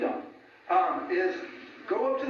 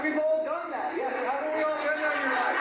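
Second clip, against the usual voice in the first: talking through real laughter, a little higher; laughing; 8 semitones higher than usual. Real, not acted. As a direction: laugh as you admit the common slip. Laughing at shared blunder.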